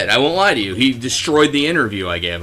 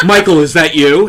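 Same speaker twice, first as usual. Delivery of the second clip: louder breathy nerd voice; nerdy voice; 8 dB louder than usual. Retold or imitated. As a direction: imitate the odd coworker. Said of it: "a very sort of nerdy voice".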